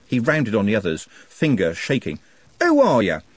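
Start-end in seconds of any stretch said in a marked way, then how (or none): 2.6-3.2 loud, raised angry challenge; angry shout. A narrator's reading. Trev rounding on the others, angry. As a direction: fling the question at the gang. Trev repeats, building rage.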